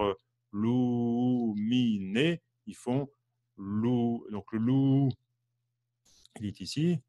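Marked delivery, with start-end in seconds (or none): 0.5-2.4 luminé très lent et plus doux, syllabes égales; mauvaise version. Shown as a demonstration. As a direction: dire luminé mollement étiré. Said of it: "plutôt que de faire". (luminé étiré, à éviter)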